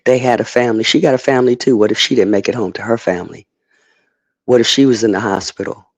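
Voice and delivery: a mildly whiny sendup of sob-story pleading; mocking victim talk. Mocking a video that plays up the victim, lightly whiny. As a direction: lightly mimic someone milking the victim angle. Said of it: "trying to play it up like".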